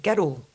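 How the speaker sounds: put-on GIRL said as two syllables, "GER-ol"; added O in girl. Shown as a demonstration. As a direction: slip an O between R and L in GIRL. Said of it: "add an O".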